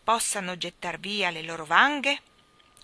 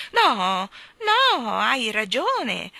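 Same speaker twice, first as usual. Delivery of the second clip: gentle protest; 4 semitones higher, 8 dB louder, much slower than usual. Acted. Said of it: "protestò gentilmente".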